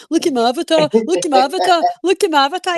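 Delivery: high, mocking overexcited boast; mock excitement. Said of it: "He was so excited about this avatar".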